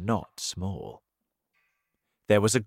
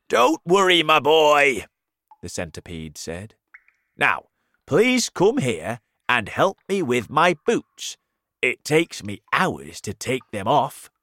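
high, loud centipede; 5 semitones higher, 7 dB louder than usual. Acted. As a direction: announce it loudly. Centipede asks for help.

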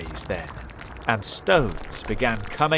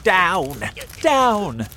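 much higher, louder urging; shouted command; 10 semitones higher, 9 dB louder than usual. A narrator's reading. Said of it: "shouted Mister Fox".

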